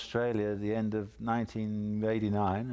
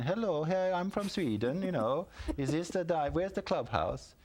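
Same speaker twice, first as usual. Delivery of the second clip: higher, hammed-up lost Swedish golfer; imitating Fanny; 8 semitones higher than usual. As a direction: play her as a puzzled tourist, pitched higher. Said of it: "and she's going".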